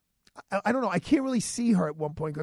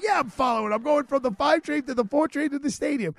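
higher, bright mock retort; animated retort; 8 semitones higher, 4 dB louder than usual. To the cop, a higher animated retelling of his reply. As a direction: needle the cop with a grin.

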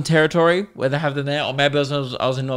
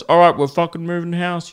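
higher, dramatic panicked homeowner; a spider-phobe announcing they're moving house, mock panic; mock overreactor; 4 semitones higher than usual. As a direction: ham up someone fleeing a spider. Mocking overreacting spider-haters.

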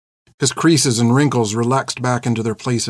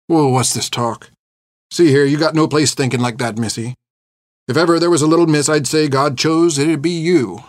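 lightly voiced old man consoling a child; gruffly reassuring; 3 semitones higher than usual. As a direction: chide fondly, then lift with conviction.

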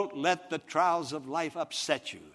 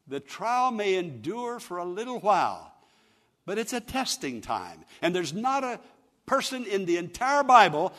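raised, pressing pulpit voice; emphatic preaching; 5 semitones higher, 5 dB louder than usual. Real, not acted. Preacher telling friends that trials are testing, emphatic preaching. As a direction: press the point on the listeners.

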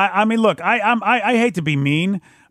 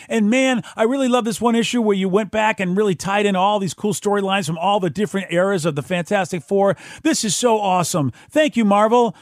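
gushing fan letter; 3 semitones higher than usual. Retold or imitated. Fan letter voiced excitedly.

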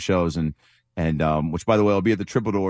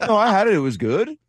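put-on high, louder Australian accent; Ryan Rowland-Smith accent; 11 semitones higher, 4 dB louder than usual. Host mimicking the Australian broadcaster, louder in Australian accent. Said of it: "was that the accent".

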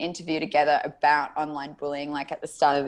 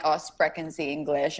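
put-on Aussie accent; 3 semitones lower than usual. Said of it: "you just said it so Aussie".

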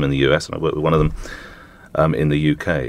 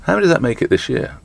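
put-on Australian accent; 8 semitones higher than usual. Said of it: "I normally do an Australian accent".

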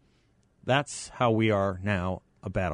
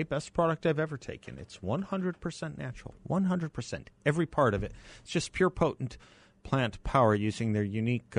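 ad read. Acted. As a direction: sell the product gently. Live ad read.

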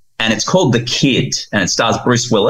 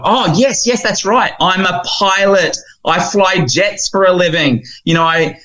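put-on much higher thrilled child voice; a kid bursting with delight at being a pilot; excited boy; 11 semitones higher than usual. Boy learns he flies jets, much higher excited child voice. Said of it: "just getting all excited".

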